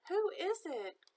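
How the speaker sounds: put-on the wolf hamming up an old lady's call; wolf as grandmother. A narrator's reading. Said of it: "trying to sound like the grandmother".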